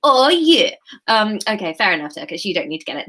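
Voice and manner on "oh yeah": loud, higher hammed-up come-on; mock-seductive pout; sexy man voice. Shown as a demonstration. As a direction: push it out through pursed lips. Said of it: "otherwise you can't get the voice out".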